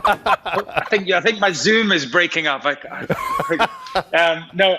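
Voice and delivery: joking excuse through laughter; laughing. Real, not acted. Jokes through laughter about bad connection.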